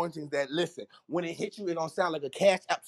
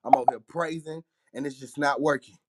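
out of breath; 3 semitones lower than usual. Real, not acted. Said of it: "they got me out of breath".

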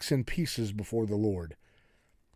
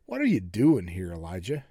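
low, measured voice of God; God's low, probing question; God speaking; 7 semitones lower than usual. Acted. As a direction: question him in a lowered voice. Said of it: "this is God speaking to him".

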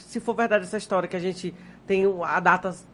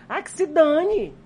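defiant; 7 semitones higher, slower than usual. Real, not acted. Defiant outburst about others' judgment.

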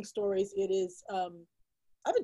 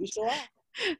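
much higher, playful squeak; squeaky high repeat; 13 semitones higher, slower than usual. Real, not acted. Guest repeating her agreement in a playful high squeak. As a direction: echo it back in a tiny high voice.

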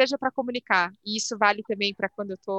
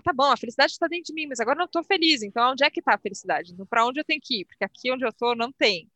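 higher, quicker frustrated voice; frustrated questioning; 3 semitones higher, faster than usual. Retold or imitated. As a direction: voice your own frustrated doubt. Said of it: "Você fala".

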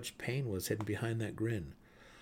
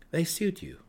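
sharp retort; 8 semitones higher, 3 dB louder than usual. A narrator's reading. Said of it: "a bit more sharply than he intended".

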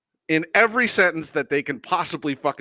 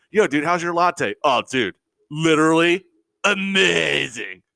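mock dude gushing. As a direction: parody of overused words. Imitating coffee dudes.

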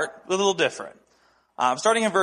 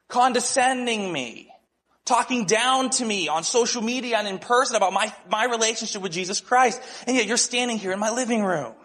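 higher-pitched, emphatic reproach to a friend; retold indignant challenge; 5 semitones higher than usual. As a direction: confront him, drawing out the accusations. Retold confrontation with his ridiculing friend.

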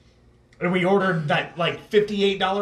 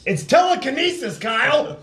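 high, loud movie-quote voice; comedy movie quote; 8 semitones higher, 4 dB louder than usual. Retold or imitated. Quoting a movie line to Kyle, mock high and loud. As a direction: belt it out like the film. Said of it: "It's a comedy band thing".

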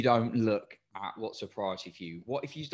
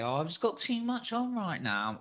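funny head voice; 9 semitones higher than usual. Retold or imitated. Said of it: "I am gonna do a funny voice".

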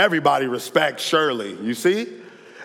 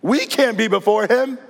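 frightened plea; 4 semitones higher than usual. Retold or imitated. Israelites beg Moses to face God for them, panicked. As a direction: cry out for Moses to go instead, mock terror. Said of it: "they tell Moses".

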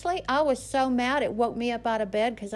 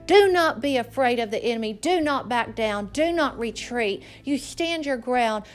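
firm, forceful preaching; emphatic exhortation; 4 dB louder than usual. Acted. Preacher telling parents what to teach children, emphatic exhortation. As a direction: drive each command home.

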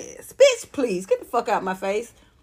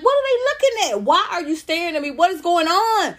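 high, startled questions at starers; baffled and put upon, voice jumping up; mock bewildered; 6 semitones higher than usual. Comic asks starers why they stare, baffled. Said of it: "I'm like".

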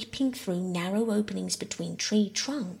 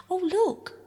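put-on much higher, thrilled girl's voice; excited cry; 12 semitones higher, 3 dB louder than usual. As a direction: cry out at the sudden view. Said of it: "Bobby cried".

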